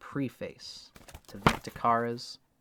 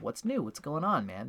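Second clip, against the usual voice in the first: friendly greeting; 2 semitones higher than usual. Retold or imitated. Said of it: "and he said".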